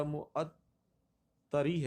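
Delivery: معطری very slowly as mu-at-tari; pronunciation option. Shown as a demonstration. Teacher offers last choice, slow mispronunciation. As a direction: add final i in معطری, drawn out. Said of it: "یہ کیا یہ تلفظ".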